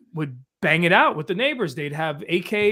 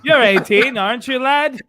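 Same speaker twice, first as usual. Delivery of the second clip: put-on old-timey 1920s fast talker; a hint of a 1920s wiseguy; 1920s guy voice; 4 semitones higher, 4 dB louder, slower than usual. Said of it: "he's got the nineteen twenties guy".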